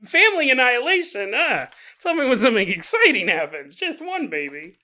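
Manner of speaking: mock bored. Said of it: "you're like".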